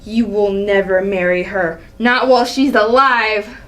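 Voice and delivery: low, menacing threat; cold anger. Acted. Father forbidding his son's marriage, menacing. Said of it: "Seeing the angry side of Allie".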